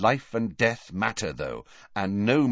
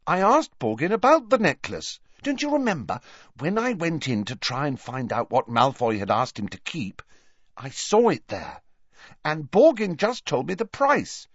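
pressing on loudly; 8 semitones higher than usual. A narrator's reading. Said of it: "she pressed on loudly".

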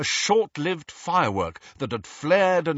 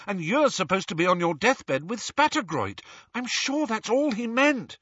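put-on higher, earnest, pleading girl's voice; Hermione pleading; 8 semitones higher than usual. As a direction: reason with him urgently. Hermione pleading and reasoning with Ron.

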